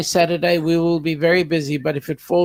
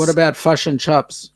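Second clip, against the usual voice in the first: put-on Kiwi accent. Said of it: "There's no way they say chops".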